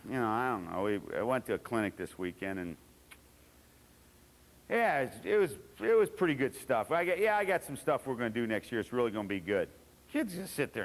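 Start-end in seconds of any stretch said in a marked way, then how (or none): 0.1-9.7 unenthusiastic coach. Retold or imitated. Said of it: "You come back and say".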